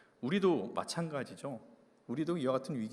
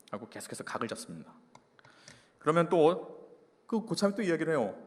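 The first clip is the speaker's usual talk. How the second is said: ordinary talk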